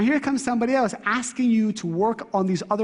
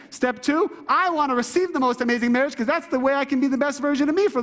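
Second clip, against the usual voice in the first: higher-pitched, rousing declaration; fired-up self pep talk; 5 semitones higher than usual. Acted. Speaker pumps himself up to renew a marriage, fired up. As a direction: psych yourself up for a fresh start.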